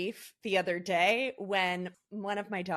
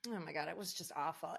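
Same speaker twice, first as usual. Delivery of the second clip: hushed dismay; 2 semitones lower, 10 dB quieter, faster than usual. Real, not acted. Recalling father's death call.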